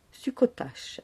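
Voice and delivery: breathy whisper of the dish name. Shown as a demonstration. To the audience, whispering the name of the next dish. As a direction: whisper it like a secret.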